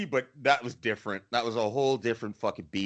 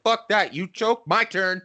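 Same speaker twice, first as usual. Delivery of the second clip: aggressive taunt; 7 semitones higher, 3 dB louder, slower than usual. Retold or imitated. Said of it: "he was just like".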